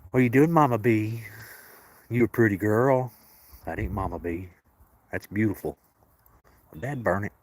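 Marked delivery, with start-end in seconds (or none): 0.1-3.1 higher, louder cooing to a cat; affectionate high coo at a pretty cat; pet talk. Real, not acted. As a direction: praise the cat in a lifted sing-song.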